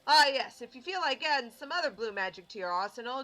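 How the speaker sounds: lively in-character mentor explaining; showman mentor. Acted. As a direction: advise a student with theatrical emphasis. Voices mentor offering more advice.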